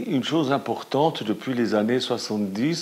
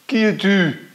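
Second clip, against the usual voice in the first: high, louder call into the valley; girl's call; 11 semitones higher, 6 dB louder, slower than usual. A narrator's reading. Little girl calling into the empty valley. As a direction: call out to the unseen voice. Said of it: "La petite fille dit".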